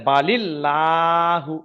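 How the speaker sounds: বালিল্লাহু recited slowly, with a thin, light লা; light l recitation. Shown as a demonstration. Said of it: "এবার লাম খাড়া জাবার লা". (বালিল্লাহু ধীরে, বারিক লা উচ্চারণে)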